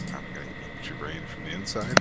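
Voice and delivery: fast, low buggy creature voice; centipede voice. Acted. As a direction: hiss it out like a creepy bug. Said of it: "a centipede voice".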